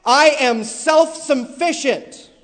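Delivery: preacher mocking an author's line; mocking quote. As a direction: ham up the quote a little. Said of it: "she writes".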